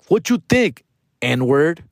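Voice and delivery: mock retort, starting high; lightly acted comeback to a supposed friend. Acting out his own drunken reply.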